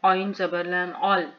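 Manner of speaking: the vowel of अल pressed out from mid-throat; mid-throat ain. Shown as a demonstration. Teacher repeating for learners, अल with a throaty ain. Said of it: "वस्ते हलक से".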